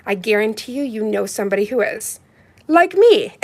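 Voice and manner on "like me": playful laugh. Real, not acted. Coming out proudly to viewers.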